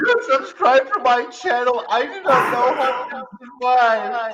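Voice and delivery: high, whiny begging; pathetic pleading. Pretend. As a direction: beg like a desperate gamer. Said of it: "this is pathetic".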